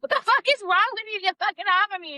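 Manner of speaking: telling how the girl yelled at him, in a mock angry yell; retold angry yell. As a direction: quote her yelling at him, half-acted. Girl yelling in a retold story.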